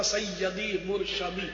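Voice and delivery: "سیدی مرشدی" slowly as sayyadi murshadi; slow mispronounced "سیدی مرشدی", murshadi with an a; common wrong pronunciation. Retold or imitated. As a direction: quote "سیدی مرشدی" with a-vowels in place of i. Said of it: "لیکن عام طور پہ نعرہ لگتا".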